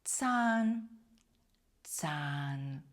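Цан with a ts onset and long a; German Zahn, one ts sound; Z read as ts. Shown as a demonstration. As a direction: start Цан on a crisp ts, stretch the vowel. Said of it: "вимовляється як один звук Ц".

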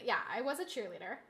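put-on quick, soft Valley Girl uptalk. Shown as a demonstration. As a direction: try out a light Valley Girl lilt. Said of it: "how do I say it?".

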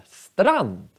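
strand with a short A and long N; model word strand. Shown as a demonstration. Teacher modelling strand for students, drawn-out N. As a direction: stretch the N in strand, keep the A short. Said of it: "A-et är faktiskt kort".

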